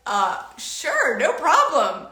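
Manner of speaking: a happy laugh in disbelief; laughing surprise. Retold or imitated. Mother laughing at her daughter's easy answer, amused.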